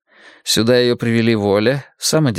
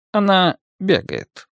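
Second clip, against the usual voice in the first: вдруг добавил; 7 semitones higher, slower than usual. A narrator's reading. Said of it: "внезапно добавил он".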